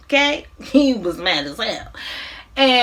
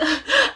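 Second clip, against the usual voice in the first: high mock sob; put-on crying gasp; boohoo sob; 7 semitones higher than usual. Mother breaking down before her son, mock boohoo sob. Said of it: "she busy boohoo crying like".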